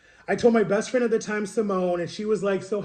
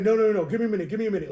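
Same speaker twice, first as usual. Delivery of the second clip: rapid, louder burst of mock excitement; retold excitement; 3 semitones higher, 4 dB louder, much faster than usual. Brother reacting to finding his baby brother, retold excitement. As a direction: blurt it out like he's all excited. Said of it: "he was all excited".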